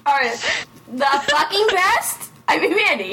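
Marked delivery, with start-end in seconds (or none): 0.9-2.3 The fucking best? rising up on best like a question; questioning tune. Real, not acted. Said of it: "That was a question".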